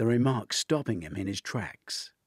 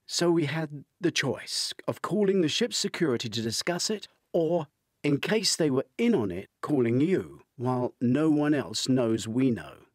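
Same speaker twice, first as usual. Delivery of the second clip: higher, urgent woman on the phone; client woman voice; 4 semitones higher than usual. Acted. Woman on the phone telling Dwight of the stolen diamonds, higher urgent voice. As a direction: lift the pitch for the worried client. Woman explains calling the agency.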